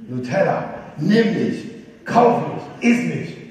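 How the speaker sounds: loud, laughing mock shout of a pushy jar. Nutella jar at the shelf bellows at the shopper, loud mock shout. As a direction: let the jar yell at the shopper. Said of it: "eine Sorte brüllt dich förmlich an".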